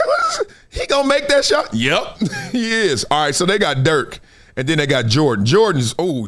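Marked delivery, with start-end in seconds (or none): 0.1-1.7 high cracking shout of disbelief; stunned fan crying out at the shot; disbelieving shout. Retold or imitated. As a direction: yell it like the shot can't possibly go in. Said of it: "I was like".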